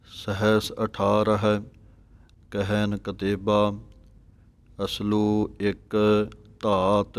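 slow, measured sacred recitation with drawn-out vowels; slow devotional Gurbani reading; scripture recitation. Shown as a demonstration. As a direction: recite each phrase deliberately, holding the long vowels.

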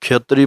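ਖੇਤਰੀ with a long e vowel; ਖੇਤਰੀ not ਖੱਤਰੀ. Shown as a demonstration. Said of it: "ਖੱਤਰੀ ਪਾਠ ਨਹੀਂ ਪੜ੍ਹਨਾ".

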